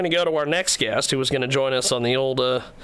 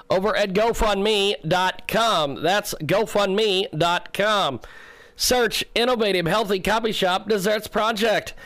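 slow ad read; 6 semitones higher, slower than usual. Real, not acted.

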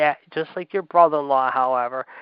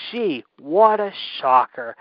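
slow, louder mock astonishment; sarcastic surprise; 5 dB louder, slower than usual. Real, not acted. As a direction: drag it out with heavy sarcasm. Sarcastic feigned surprise at nepotism.

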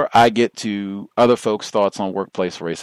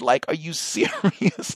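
incredulous laugh; 9 semitones higher than usual. Real, not acted. Incredulous at the arrest.

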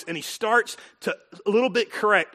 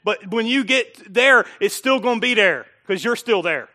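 preached voice of God; 3 semitones higher, 5 dB louder than usual. Acted. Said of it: "And God is saying".

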